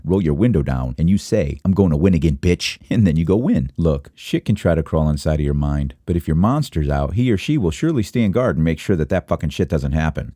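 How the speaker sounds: hyped guru delivery; over-the-top motivational speaker; mock motivational speech. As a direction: preach it like a hustle coach.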